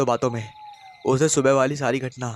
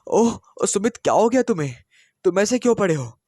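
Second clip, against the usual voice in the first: much higher, sweet mock concern; feigned innocence; 7 semitones higher than usual. A narrator's reading. Wife pretending innocence to her husband, feigned concern. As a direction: play innocent, pretending to care. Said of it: "अनजान बनकर आनंदी ने पूछा".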